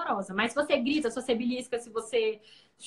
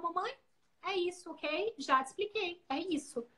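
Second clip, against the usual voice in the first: imitating her son; 4 semitones higher, 5 dB quieter than usual. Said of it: "viravam no final".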